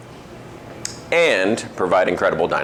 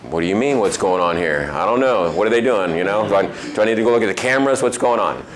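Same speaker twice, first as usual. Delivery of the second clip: mildly baffled retold reply; lightly acted bewildered questioning; confused; faster than usual. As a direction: play a touch of confusion. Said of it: "confused for a second".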